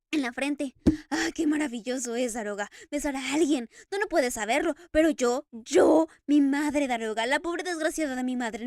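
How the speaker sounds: loud, tearful outburst, voice breaking; sobbing Eric. Acted. Eric weeping to the Daroga over the kiss, loud and tearful. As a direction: pour it out between sobs. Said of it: "Eric sollozaba".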